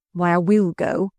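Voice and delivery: usual speaking voice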